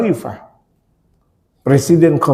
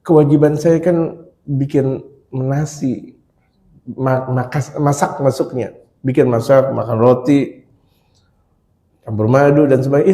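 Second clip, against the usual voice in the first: calm, smiling reply; 3 semitones lower than usual. Acted. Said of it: "senyum. Begini".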